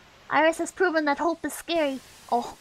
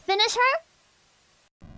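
announcer; 6 semitones higher, much slower than usual. Pretend. Fighting game announcer line.

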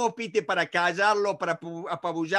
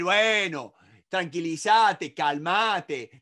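dismissive calming; 2 semitones lower, 3 dB louder, much slower than usual. Shown as a demonstration. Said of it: "no decirle".

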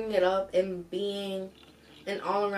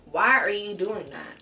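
put-on sharp, louder scold at the kids; 6 dB louder than usual. Shown as a demonstration. Mom scolding kids for touching her things, sharp. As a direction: snap at naughty kids. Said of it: "You hear my tone change?".

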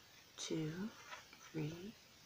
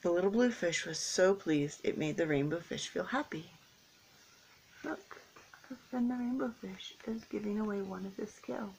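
gentle storybook narration; reading to children. A narrator's reading. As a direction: read it like a picture book for kids. Reading picture book to children.

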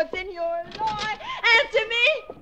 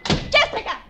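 calling out; 4 semitones higher, 5 dB louder, slower than usual. Acted. Calling for sister.

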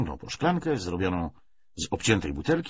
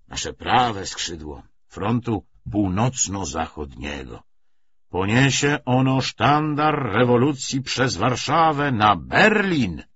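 lightly voiced party orator; 4 semitones higher, 6 dB louder, slower than usual. Commissar proclaims the march on Berlin, mildly rousing oratory. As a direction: build steadily to a drawn-out last word.

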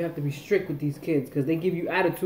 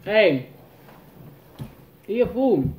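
calling out; 4 semitones higher, 6 dB louder, slower than usual. Real, not acted. Mom calling kid to order.

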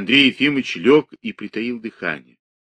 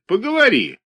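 angry mimic; 13 semitones higher, 3 dB louder than usual. A narrator's reading. Ivan mocks Nikita.

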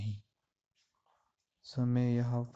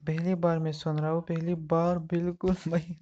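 still laughing. Real, not acted. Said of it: "मुझे हंसी आ रही है".

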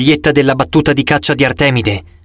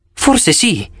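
unconvinced; 6 semitones higher than usual. Acted. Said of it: "poco convinta".

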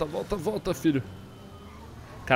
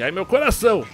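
high dramatic cry; mock heartbreak; 7 semitones higher, 7 dB louder than usual. Real, not acted. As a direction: clutch your heart, playful. Dramatic reaction to teammate. (coração partido brincalhão)

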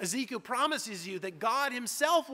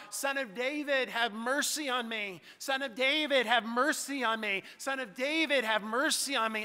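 desperate crying out; 4 semitones higher than usual. Retold or imitated. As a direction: call out again and again, begging. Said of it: "Bartimaeus cries out".

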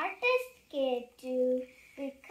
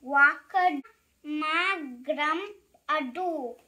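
silly sounds; 2 semitones higher, 12 dB louder than usual. Acted. Reader forced to make silly sounds, goofy and loud. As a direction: belt out nonsense words wildly. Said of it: "make silly sounds like".

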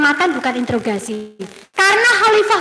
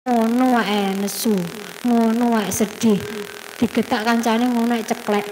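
dismissive mock; 3 semitones lower than usual. Shown as a demonstration. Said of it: "jangan bilang".

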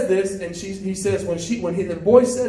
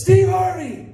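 high, gushing mock fangirl; excited fan; 9 semitones higher than usual. White lady spots Steve Harvey in the mall, high excited imitation. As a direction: squeal the name and questions in a high voice. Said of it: "And she's all excited".

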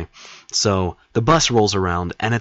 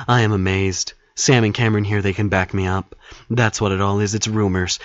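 put-on childish baby act. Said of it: "I give this childish baby act".

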